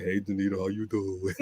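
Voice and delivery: soft, low, harmless hello; meek greeting. Pretend. Imagining running into an old flame, meek low greeting. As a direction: play it small and quiet.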